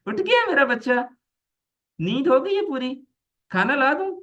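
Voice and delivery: high, sing-song sarcastic fussing; mock-doting mother. Mother to child just woken in the morning, sarcastically doting. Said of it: "वाकई तारीफ कर रही हैं या अम्मी".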